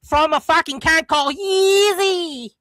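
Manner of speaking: drawn-out Aussie drawl; Australian accent. Shown as a demonstration. Mel showing off Aussie talk on request, Australian accent. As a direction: put on a whiny Australian accent. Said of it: "give us some Australian talk".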